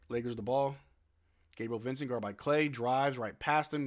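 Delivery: ordinary talk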